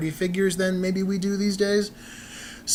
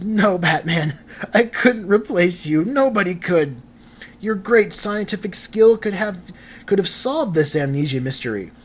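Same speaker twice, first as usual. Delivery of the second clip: higher-pitched, hammed-up distress without real sobs; mock tearful; 5 semitones higher, 4 dB louder than usual. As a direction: protest like an upset comic-book sidekick. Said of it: "he's literally crying".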